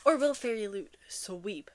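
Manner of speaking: whispered tease, slowed down; conspiratorial whisper. Real, not acted. Teasing viewers about which box will win, whispered. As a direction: let the question hang in a whisper.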